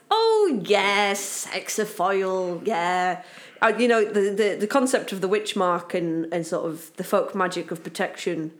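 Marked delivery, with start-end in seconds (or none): 0.1-3.2 excited recognition. Retold or imitated. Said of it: "I went".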